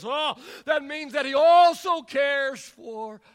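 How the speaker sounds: emphatic, fervent sermon delivery; impassioned preaching. Acted. Preacher assures congregation that Jesus cares for them too, impassioned.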